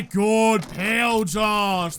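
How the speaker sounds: loud shout to a friend; calling out. Real, not acted. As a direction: shout a greeting across. Calling out to ally.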